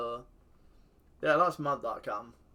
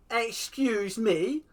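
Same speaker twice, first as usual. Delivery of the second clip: slow, much higher, louder incredulous question; outraged disbelief; 10 semitones higher, 7 dB louder, much slower than usual. Real, not acted. Protesting the referee's penalty, slow outraged rise. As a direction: drag it out in disbelief.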